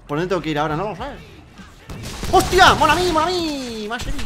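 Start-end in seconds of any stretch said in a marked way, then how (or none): 2.3-4.2 high, loud yelp easing off; mock-French wail after a shock; alarmed cry. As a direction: cry out high, then plead playfully. Startled cry turning to mock French pleading.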